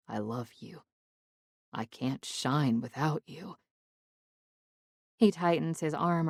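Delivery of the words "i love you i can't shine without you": soft whispered love words, much softer; whispering. Acted. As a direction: whisper it right into her ear. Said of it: "whispering in my ear".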